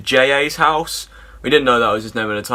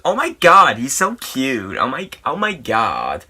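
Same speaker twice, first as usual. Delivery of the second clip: camp, excited fan gush; mock swooning over a waiter; gushing impression. Mimicking James Charles gushing.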